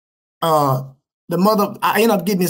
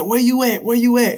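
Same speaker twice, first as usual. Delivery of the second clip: retold urgent demand, slightly raised pitch; urgent questioning; 3 semitones higher than usual. Baby mama calls him on the phone, urgent. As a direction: mildly imitate a worried caller, repeating insistently.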